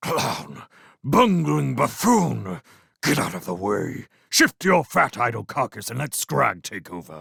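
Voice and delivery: seething, furious, scornful hiss in rage. Narrator reads Cluny's words to Cheesethief on the plank, hissing in rage. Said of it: "Someone whispered commands to his followers as they pushed the plank towards the wall from their perch in the elm tree. / Someone aimed a kick at him as the efficient weasel took his place. / Someone sna".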